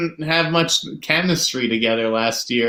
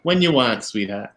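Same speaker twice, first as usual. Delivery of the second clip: Boston accent; 3 semitones lower than usual. Shown as a demonstration. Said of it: "I can do the accent".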